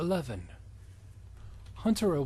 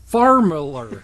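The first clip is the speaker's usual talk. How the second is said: laughing; 3 semitones higher, 11 dB louder, slower than usual. Real, not acted.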